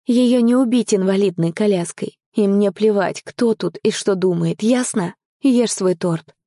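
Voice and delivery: insist, allowing no argument; exasperated but loving protest; impassioned insistence. Acted. Firmly rebutting partner's fear of abandonment.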